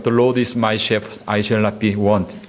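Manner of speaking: very slow, careful English recitation; English quote. Shown as a demonstration. Pastor reciting the psalm in English to the congregation, very slow. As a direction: spell out each English word slowly. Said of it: "영어로 이야기하면".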